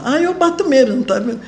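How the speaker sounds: high, laughing boast; playful tough-woman brag; mock tough boast. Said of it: "a mulher machona".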